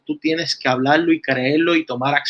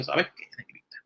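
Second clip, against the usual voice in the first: softly voiced God, quiet and low; a hint of a gentle divine voice; 3 semitones lower, 5 dB quieter than usual. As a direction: speak as God, gently correcting her. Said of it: "Dios le dijo".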